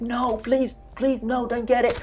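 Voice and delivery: high, imitated panicked begging; mock pleading. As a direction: replay the panic of watching the enemy near the key. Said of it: "I was like".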